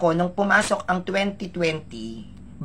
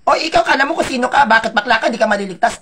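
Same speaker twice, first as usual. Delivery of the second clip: louder, higher, fast mocking taunt; a hint of a jeering critic; mock basher taunt; 4 semitones higher, 5 dB louder, faster than usual. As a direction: sneer like an online basher, lightly voiced. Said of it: "Inulan ako ng bashers".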